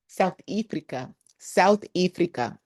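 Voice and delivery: put-on South African accent. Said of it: "it's like the tick to talk".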